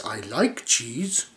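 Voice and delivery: slow, savoured, drawn out; slow relish. Acted. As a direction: linger on it like a treat. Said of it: "licking his lips".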